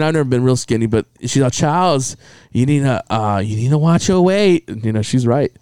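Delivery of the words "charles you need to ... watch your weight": Chinese lady doctor. Retold or imitated. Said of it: "was a Chinese lady".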